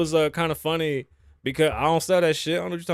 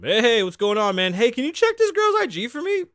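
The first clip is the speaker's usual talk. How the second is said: mock eager bro; 9 semitones higher, 4 dB louder than usual. Mocking a guy's late-night request.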